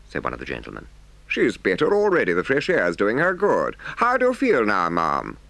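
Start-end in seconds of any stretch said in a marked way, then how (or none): 1.3-5.4 lightly voiced higher, concerned gentleman; solicitous gentleman. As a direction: check on the patient with mild gentlemanly concern. Kindly gentleman in the story.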